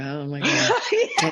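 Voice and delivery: high, slow, laughing groan of dread; laughing high-pitched dread; mock dread. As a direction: stretch it out in mock panic. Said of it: "I go".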